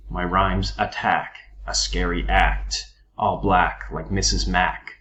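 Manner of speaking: slow, leaning on each A sound; assonance demo. Shown as a demonstration. Teacher quoting a rap line, stressing the A sounds. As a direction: draw out the repeated A vowels. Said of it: "You can hear the A sound".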